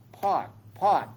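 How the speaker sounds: firm meditation noting of each pause; name each pause as it comes; noting aloud. Shown as a demonstration. Teacher shows the class how to note, firm. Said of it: "we call pause".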